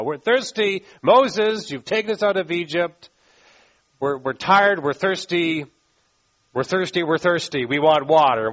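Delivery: insistent crowd grumbling at Moses; acted complaint. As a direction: plead and nag, pushing key words. Acting out Israelites complaining to Moses.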